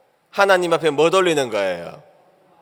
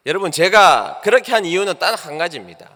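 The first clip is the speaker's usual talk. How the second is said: rising sermon fervor; 4 semitones higher, 4 dB louder than usual. Acted. Preaching the lesson at the close.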